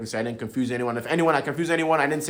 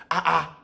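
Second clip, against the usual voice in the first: "Ah, ah" pitched up as an exclamation; two short higher notes on "Ah, ah"; meaningful intonation; 4 semitones higher than usual. Shown as a demonstration. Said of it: "Intonation is everything".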